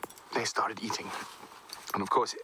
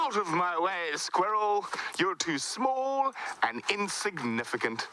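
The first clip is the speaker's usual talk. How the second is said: pitched-up, pompous order to get out of the way; haughty elephant; 8 semitones higher, slower than usual. Acted. The proud elephant pushing the squirrel off the path, haughty and high. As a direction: sweep the little one aside like a proud giant. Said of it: "elephant just went".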